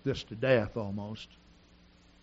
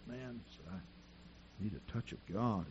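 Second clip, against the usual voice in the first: retold tearful plea; 4 semitones lower, 11 dB quieter, slower than usual. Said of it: "He was crying".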